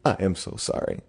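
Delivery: soft, hushed mock-sincere apology; whisper-quiet, overly earnest sorry. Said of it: "it goes something like this".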